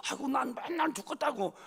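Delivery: normal talking voice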